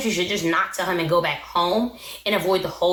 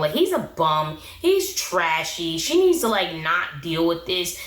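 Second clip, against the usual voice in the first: ordinary talk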